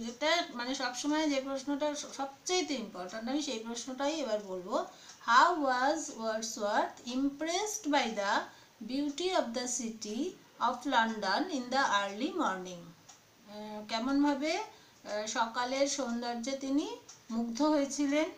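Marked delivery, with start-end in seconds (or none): 5.3-12.8 slow, measured reading of an exam question; teacher dictating, words drawn out. Real, not acted. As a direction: read the question out phrase by phrase.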